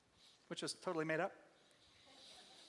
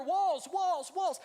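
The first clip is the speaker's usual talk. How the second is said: emphatic repetition; 7 semitones higher, 5 dB louder, much slower than usual. Real, not acted. Preacher hammering the point.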